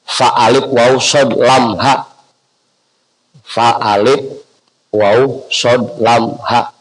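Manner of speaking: slow, letter by letter; spelling dictation. Shown as a demonstration. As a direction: spell it out for people writing it down. Spelling out prayer for learners. (eja perlahan huruf demi huruf)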